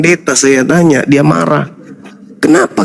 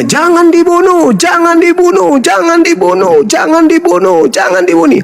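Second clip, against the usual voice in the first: acted crowd shout; 11 semitones higher than usual. Preacher voicing the Muslim row at an execution, acted shouting. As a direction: cry out repeatedly like a pleading crowd. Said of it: "orang Islam sudah pasti teriaknya".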